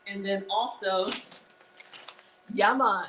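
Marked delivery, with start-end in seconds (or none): 2.5-3.0 a light Jamaican yeah man, said louder; festive Jamaican. Pretend. Greeting her live viewers, a festive mock Jamaican yeah man. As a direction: toss it off in a playful Jamaican lilt. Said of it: "I don't know why I said it like that".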